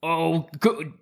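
slow, high put-on English accent; mock English accent. Friend joining the joke in a mock English accent. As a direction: ham up a posh Brit over tea. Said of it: "doing some English accents".

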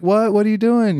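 put-on high alarmed yelp of a kid brother being hit; startled little brother. Brother attacked, cries out.

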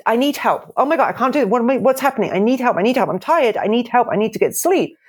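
mild mock panic, phrases tumbling out one after another; urgent pleading. Coach voices a crying baby begging for help, acted urgent pleading. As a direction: act out a baby's urgent plea for help. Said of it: "it's the real big, quick, urgent cry".

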